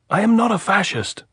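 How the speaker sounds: high, loud answer across the wire; shouting. A narrator's reading. Andres answering the sentry's challenge, shouting. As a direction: yell it up so they hear. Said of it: "Andres shouted".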